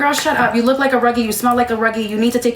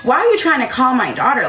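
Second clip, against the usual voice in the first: mock indignant; 2 semitones higher than usual. Defensive mother accusing the caller of harassment, mock indignant. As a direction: imitate her protesting, voice pitched up.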